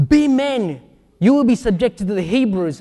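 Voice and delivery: stiff, read-off delivery of a battle call; artificial reading. Shown as a demonstration. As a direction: read it like words off a page. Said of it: "That sounds so artificial".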